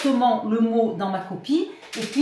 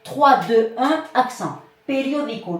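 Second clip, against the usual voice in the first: teacher demo of stress placement; counting to the stress. Shown as a demonstration. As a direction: count back from the end and land on the accent of "Periódico". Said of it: "vous les accentuez en partant de la fin".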